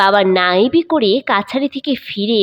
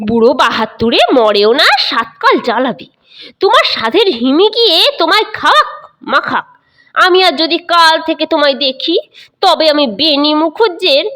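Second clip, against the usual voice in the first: angry outburst; 5 semitones higher than usual. Acted. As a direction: lash out in irritation. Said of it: "মা রাগ করে বলে উঠলেন".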